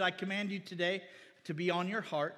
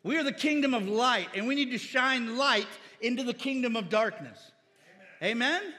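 loud, high ringing sermon call; preaching at full force to the congregation; fiery preaching; 5 semitones higher, 6 dB louder than usual. Acted. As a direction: lift the room with the kingdom line.

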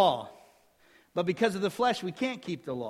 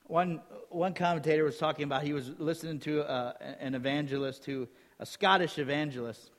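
ordinary talk, nothing marked

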